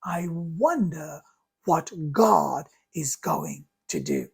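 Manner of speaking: calm trust. Shown as a demonstration. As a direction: let go with quiet faith. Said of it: "I simply say".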